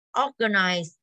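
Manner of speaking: "Organize" opening on a long o; O sound. Shown as a demonstration. Teacher sorts vowels with the class, O sound in "Organize". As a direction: round out the first vowel of "Organize". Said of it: "là âm O rồi".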